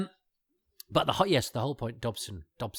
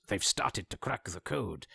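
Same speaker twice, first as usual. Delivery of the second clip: slower, lightly voiced European accent; a hint of a continental accent on the phone; slight foreign accent; slower than usual. Host imitating Dobson ringing up, mild European accent. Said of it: "has a slight foreign accent".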